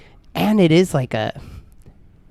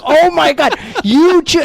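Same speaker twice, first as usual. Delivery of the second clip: put-on high, louder incredulous girlfriend; girlfriend quoted; 14 semitones higher, 6 dB louder, slower than usual. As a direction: catch him out in mock disbelief. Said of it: "And Ollie's like".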